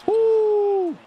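very high, loud whoop of joy; celebration whoop. Real, not acted. Gamer whoops loudly after a perfect shot. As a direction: let out a big cheer.

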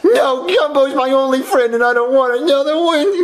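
tearful refusal. Acted. Boy refusing a replacement friend, tearful. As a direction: refuse through leftover tears. Still mourning the imaginary friend.

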